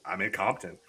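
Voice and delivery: low, soft, timid reply; meek answer. Retold or imitated. Nervous newcomer answering the local, low and meek. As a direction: shrink into the words. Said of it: "I was".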